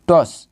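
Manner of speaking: "টস" as one syllable; "টস", whole word at once; said together. Shown as a demonstration. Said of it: "এটা একসাথে উচ্চারণ করতে হবে".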